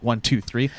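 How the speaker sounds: escalating alarm as sprays add up; rising panic. Acted. Player getting sprayed, growing alarm.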